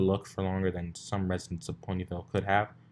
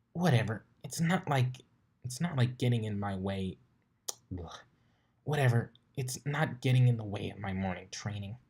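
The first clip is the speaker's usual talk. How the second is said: lightly voiced tomboyish pegasus, annoyed; a hint of a cocky flyer grumbling; irritated sporty pony voice; Rainbow Dash voice. Rainbow dismissive.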